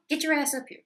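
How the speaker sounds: fake Russian accent. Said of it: "fake horrible Russian accent".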